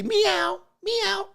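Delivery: very high falsetto meow; squeaky meow. Pretend. Squeaky meow call to ladies.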